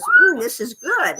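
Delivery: the parrot voice, slow and pleased; parrot imitation. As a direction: mimic the parrot relishing a strawberry. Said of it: "And he goes".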